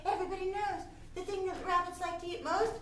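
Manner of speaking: menacing little rabbit. Acted.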